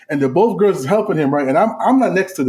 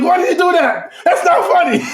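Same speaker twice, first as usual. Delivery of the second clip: much higher, whiny upset brother; mock upset whine; 13 semitones higher, 3 dB louder than usual. Imitating the pissed-off brother while laughing. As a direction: whine it like the annoyed kid brother.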